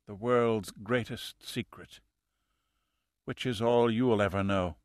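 a calm fanatic with little breath left; dying killer. A narrator's reading.

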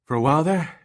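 out of breath after a fight; panting. Acted. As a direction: gasp the words between breaths. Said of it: "Eddie panted".

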